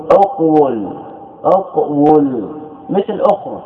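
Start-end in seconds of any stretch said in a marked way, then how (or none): 0.1-2.5 اقول as uq-wul, w sounded after a closed first syllable; underlying form. Shown as a demonstration. Teacher showing students the original form, uq-wul demonstration. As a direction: say اقول slowly in two parts, uq-WUL. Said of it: "كيف تقول؟".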